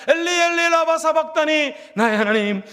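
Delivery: loud, pleading cry of abandonment; anguished cry. Retold or imitated. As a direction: forsaken son crying out loud. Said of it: "눈물을 흘리며 이렇게 소리 지릅니다".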